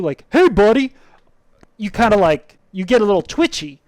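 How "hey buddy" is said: loud, high aggressive hey buddy; shouted at you. Retold or imitated. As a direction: call it across a parking lot. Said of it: "somebody just shouts at you".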